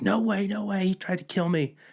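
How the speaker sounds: high-pitched, screaming, objecting tone. Acting out an officer arguing with other cops, imitating someone screaming. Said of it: "they're arguing and screaming".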